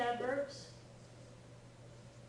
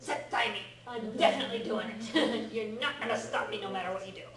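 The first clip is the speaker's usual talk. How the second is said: mock toddler emphasis; 3 dB louder than usual. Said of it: "like a two-year-old putting emphasis".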